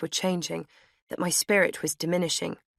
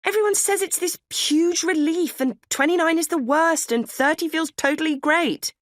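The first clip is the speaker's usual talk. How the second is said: high, louder indignant complaint; outraged protest; 11 semitones higher, 5 dB louder than usual. A narrator's reading. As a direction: protest it as if cheated. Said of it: "I said in outrage".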